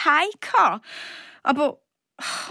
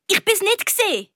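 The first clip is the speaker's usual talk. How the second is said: much higher, lightly called out; a child's mild cry, pitched up high; 9 semitones higher, faster than usual. A narrator's reading. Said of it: "rief ich". (ein leicht gerufener Kinderausruf, viel höher)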